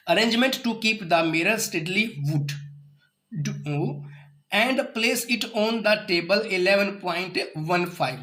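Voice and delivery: very slow, word by word reading aloud; slow textbook reading. Acted. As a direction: read each word out slowly for the class. Reads the textbook aloud slowly. (धीमे-धीमे किताब से पढ़ना)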